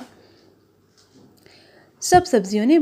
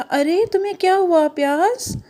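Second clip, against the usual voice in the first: higher, soothing orange voice; orange consoling onion; 5 semitones higher than usual. Acted. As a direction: coax the crying friend gently. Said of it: "उसने कहा".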